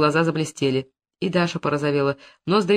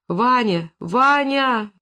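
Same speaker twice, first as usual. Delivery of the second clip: a raised, cracking cry of his name, higher on the second; heartrending cry; 5 semitones higher, much slower than usual. Acted. Dasha cries out to Ivan as he is arrested, a heartrending cry. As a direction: call out to him in despair. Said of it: "С душераздирающим криком".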